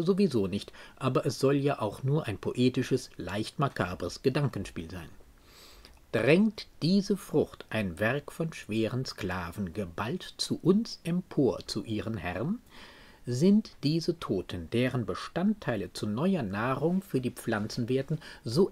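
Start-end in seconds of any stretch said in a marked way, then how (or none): 6.1-12.6 slow, measured verse with pauses between phrases; poem recitation. Acted. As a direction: recite it deliberately as a question in verse. Quotes the poem before explaining it. (getragen vorgetragene Gedichtzeilen)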